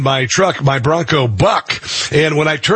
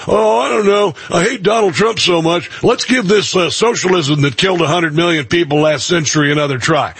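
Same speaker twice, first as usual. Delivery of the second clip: lightly mimicked waverer, higher pitch; a touch of mocking, higher-pitched indecision; mock Democrat voter; 3 semitones higher than usual. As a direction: imitate a hesitant voter with a lifted voice. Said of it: "a lot of Democrats are going".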